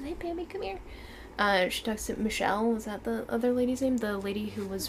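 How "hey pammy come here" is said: whispering. Retold or imitated. Voicing a hushed call.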